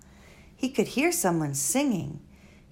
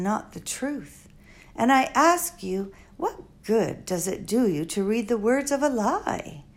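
lightly voiced elderly foreign woman, musing; a hint of an old, wise, rambling lady; Doctor Measham. Old doctor musing to Flora at the bedside, lightly voiced.

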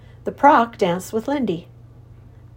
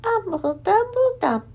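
murmuring creature voice; 13 semitones higher than usual. Acted. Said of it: "looked at the king and murmured".

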